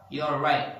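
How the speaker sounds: "right" cut off before the T releases; unreleased T in "right"; stop T. Shown as a demonstration. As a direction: end "right" on a held-back T. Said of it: "they stop".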